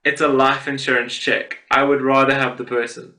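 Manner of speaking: understated, matter-of-fact quote of a customer; deadpan retelling. Retold or imitated. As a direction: quote it dead seriously, evenly. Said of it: "Then she deadass was like".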